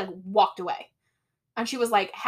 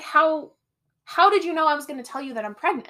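higher-pitched, incredulous retold question; baffled girlfriend; 5 semitones higher than usual. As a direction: ask it as a stunned girlfriend, in mock disbelief. Voicing the shocked pregnant girlfriend.

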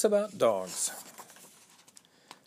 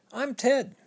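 shy thief voice; 10 semitones higher than usual. Acted. Thief introduces himself.

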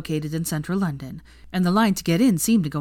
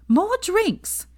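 high commanding call; shouted order. A narrator's reading. Pansy snaps her fingers at Theo, high and commanding. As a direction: bark the order. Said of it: "Pansy shouted".

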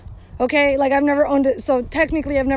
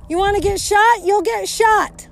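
shouting at the dog; 7 semitones higher than usual. Real, not acted. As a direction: call the dog off sharply, pitched up. Yelling at dog near cows.

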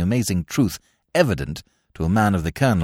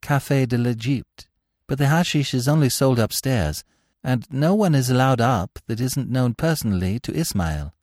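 lightly voiced informant, slightly higher; a hint of a deferential witness, pitched up a little; 5 semitones higher than usual. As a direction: give up the details to your interrogator.

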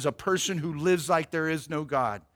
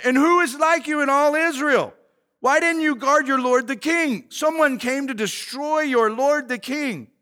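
raised, scolding call; mock screaming; 5 semitones higher, 4 dB louder than usual. David rebukes Abner for failing the king, raised scolding. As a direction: scold loudly across a distance, short of screaming. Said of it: "this guy's screaming at him".

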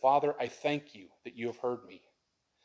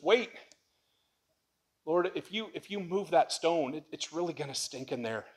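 passive-aggressive; 4 semitones higher than usual. Acted. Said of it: "passive-aggressive thing".

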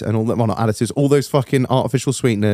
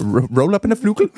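laughing high; giggling through the joke; 8 semitones higher than usual. Acted. Joking Dutch banter.

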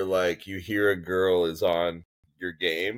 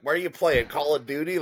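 higher-pitched puzzled question; mock bafflement, pitched up; 7 semitones higher than usual. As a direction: ask it like a baffled old-timer. Imagines his puzzled question.

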